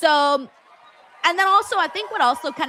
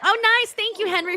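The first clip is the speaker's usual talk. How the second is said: excited; 8 semitones higher than usual. Real, not acted. Reacting to new follower.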